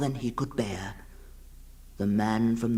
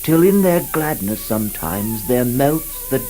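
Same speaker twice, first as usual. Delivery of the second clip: a rapt lover pleading, growing louder and more passionate; Karnavutra's ardent plea; 4 dB louder than usual. Acted. Karnavutra's love speech to Vava Nyria.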